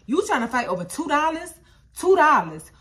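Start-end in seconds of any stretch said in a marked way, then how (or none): 2.0-2.7 loud, higher repeat; emphatic. Retold or imitated. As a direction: hammer the sum in disbelief. Retelling the argument.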